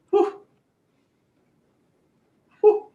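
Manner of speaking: short high "whew" puffs. Real, not acted. Trader staring at a price spike, high whews. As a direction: let out high little whews. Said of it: "He sounds like a Haitian lady".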